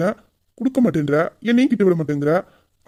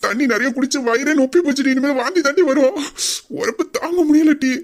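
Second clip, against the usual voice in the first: high, fretful moaning; hammed-up suffering, easing to a moan; pained wailing; 4 semitones higher than usual. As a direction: whine that it's unbearable. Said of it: "யோ, யோ, கத்தாதயா".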